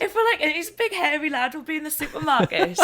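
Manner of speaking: laughing through a funny story; giggling as she tells the supermarket bit; laughing while telling. Real, not acted. Telling her friend about Michael while laughing. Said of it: "That's brilliant".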